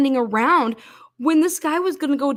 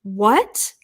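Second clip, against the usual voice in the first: clueless employee; 3 semitones lower than usual. Retold or imitated. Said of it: "This is what I hear back".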